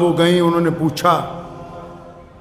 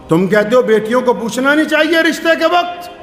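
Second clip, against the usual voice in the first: raised, higher-pitched sermon voice; preaching; 7 semitones higher than usual. Real, not acted. Preacher rebuking those who won't consult daughters, preaching. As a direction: preach it out to the congregation.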